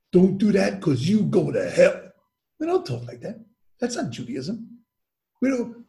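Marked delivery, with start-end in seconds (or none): 0.1-2.1 lightly voiced scolding preacher, slow; a hint of stern, drawn-out admonishing; mock hellfire warning. Teacher mimicking preachy threats of hell, mock scolding.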